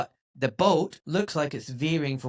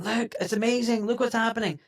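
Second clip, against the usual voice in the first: mock amazement; 6 semitones higher than usual. Mimics excited people sending clips.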